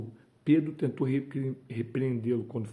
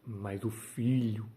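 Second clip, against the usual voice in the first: ordinary talk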